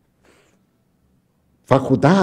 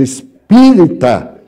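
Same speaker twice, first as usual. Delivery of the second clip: surprised echo; 2 semitones higher, 5 dB louder, slower than usual. Retold or imitated. Speaker surprised by the revelation.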